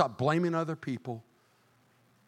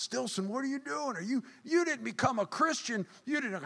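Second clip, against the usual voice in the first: put-on high incredulous teen voice, much higher; mocking school friends; 11 semitones higher than usual. High school friends gasping at his Christian book. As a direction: squeal it like a disbelieving friend.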